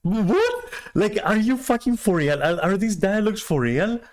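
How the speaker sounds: can't believe what he's hearing; incredulous. Retold or imitated. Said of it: "And I'm like".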